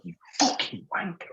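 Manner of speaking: high-pitched retold curse; mock outburst. Man about to curse a sausage-stealing seagull, mock outburst. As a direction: act out swearing at a thief.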